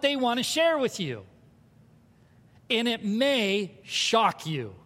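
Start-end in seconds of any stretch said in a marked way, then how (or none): 2.7-4.7 slow emphatic. Shown as a demonstration. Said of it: "Say that again".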